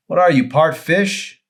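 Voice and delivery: high, slow teasing mutter to herself; a hint of Emery muttering; Emery mumbling. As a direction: needle him under her breath. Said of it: "Emery mumbled to herself".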